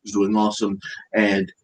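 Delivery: lightly voiced Trump, boastful and repetitive; Trump impression. Mocking Trump for a friend, lightly voiced boastful Trump. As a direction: praise everyone like a salesman president. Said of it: "That's a great impression".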